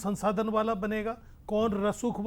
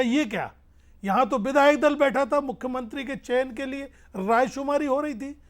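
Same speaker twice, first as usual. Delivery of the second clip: retold startled protest, pitched up and a bit louder; startled reaction; 4 semitones higher, 5 dB louder than usual. Panelist retelling a leader's shock at the selection, mock startled. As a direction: mildly imitate someone taken aback. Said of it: "Scindia जी भी चौंक गईं".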